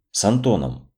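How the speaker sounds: «с Антоном» set apart after a pause; single out «с Антоном» as a pointed question; pointed emphasis. A narrator's reading. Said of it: "Мария Петровна выделила это интонацией". (выделить интонацией «с Антоном»)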